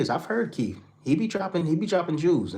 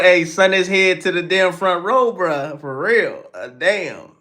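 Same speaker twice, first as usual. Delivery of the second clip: retold exclamation; 7 semitones higher, 7 dB louder, slower than usual. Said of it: "He said".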